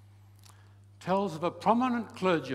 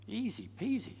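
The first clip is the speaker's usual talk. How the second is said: easy peasy lifted higher with peasy rising; rising and brighter; 6 semitones higher, 4 dB quieter than usual. Shown as a demonstration. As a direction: lift peasy up at the end.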